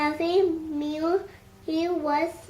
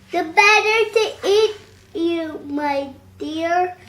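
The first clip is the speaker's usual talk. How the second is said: cried; 2 semitones higher, 8 dB louder than usual. A narrator's reading. Wolf springing on Red, loud triumphant cry. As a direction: pounce on the last word. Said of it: "cried the wolf".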